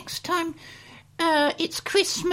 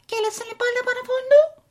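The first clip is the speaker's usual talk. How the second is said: fake Italian; 5 semitones higher, 3 dB louder, faster than usual. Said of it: "Italian gibberish".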